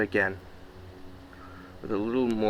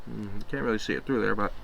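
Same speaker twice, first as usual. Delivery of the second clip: talking through a mouthful of apple; chewing while talking, mouth full; 4 dB quieter than usual. Real, not acted. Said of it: "I don't really like talking with my mouth full".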